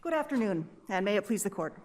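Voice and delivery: muffled behind a mask; through a face mask. Real, not acted. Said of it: "you're speaking through a mask".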